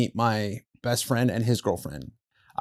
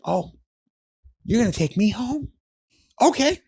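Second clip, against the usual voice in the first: higher, rising mock outrage; sarcastic threat in a raised voice; mocking girlfriend; 9 semitones higher, 3 dB quieter than usual. Girlfriend sarcastically threatening her boyfriend, higher mock outrage. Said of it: "She's like".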